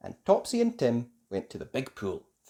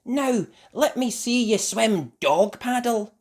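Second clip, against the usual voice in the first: mother's voice; 8 semitones higher, 5 dB louder than usual. A narrator's reading. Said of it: "said Mummy".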